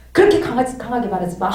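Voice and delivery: retold huffy protest; mildly heated comeback; angry retort. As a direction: act out telling someone off, irritated. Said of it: "막 화가 나가지고".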